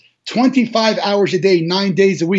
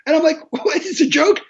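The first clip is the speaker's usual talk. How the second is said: laughing disbelief; 9 semitones higher than usual. Retold or imitated. Laughing while retelling pancakes.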